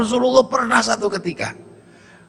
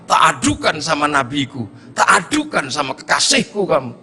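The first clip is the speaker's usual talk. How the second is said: angry villager; 7 semitones lower than usual. Retold or imitated. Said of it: "Orang ini marah".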